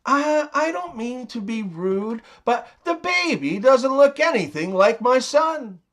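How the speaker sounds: lightly acted, tentative in-law voice; mother-in-law. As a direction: tiptoe into an awkward remark as a mother-in-law. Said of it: "A mother-in-law says".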